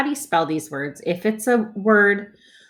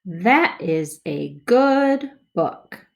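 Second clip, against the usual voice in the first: smoother reading; slower than usual. Shown as a demonstration. Teacher models smoother second read for kids. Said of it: "More smoothly".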